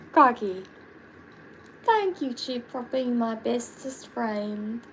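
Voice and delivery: a mild put-on Australian accent, chirpy; a hint of Australian accent thanking a friend. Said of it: "That's my Australian accent".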